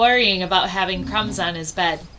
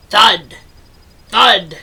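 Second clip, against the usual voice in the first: heavy thud; 7 dB louder than usual. A narrator's reading. Footsteps in the story.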